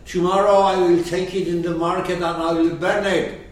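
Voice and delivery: loud, brisk announcement of a threat; emphatic declaration. Acted. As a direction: declare it forcefully, without pauses. Acting out the husband's loud threat.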